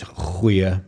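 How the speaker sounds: goeie begun with a throaty rasp; guttural G. Shown as a demonstration. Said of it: "also very guttural".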